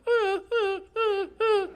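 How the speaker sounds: high, soft whimpering puppy noises; mild mock dog whimper; dog whimper imitation. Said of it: "she'll be like".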